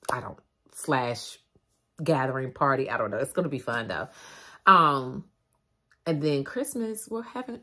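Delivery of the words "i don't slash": slow unvoiced whisper; half-say it under the breath; whispered aside. Real, not acted. Correcting herself while describing plans, whispered.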